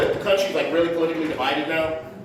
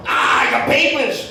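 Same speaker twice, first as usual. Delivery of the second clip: slow, higher-pitched comic demand; mock flip-out; 4 semitones higher, slower than usual. Comic flipping out at the other driver, mock outrage. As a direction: draw it out as a hammed-up outburst. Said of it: "I flip out".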